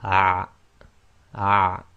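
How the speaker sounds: short loud "ah" squeezed in mid-throat; short Arabic ain. Shown as a demonstration. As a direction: clip "ah" short with a tight throat. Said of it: "blocking the middle of your throat".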